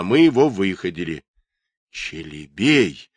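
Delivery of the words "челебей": excited cry. A narrator's reading. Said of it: "взволнованно воскликнул".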